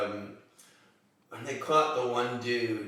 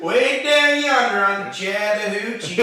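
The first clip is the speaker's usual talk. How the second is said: loud hammed-up Midwest accent; 13 dB louder than usual. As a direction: hick Midwestern drawl, high and loud. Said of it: "speak in really, like, Midwest accents".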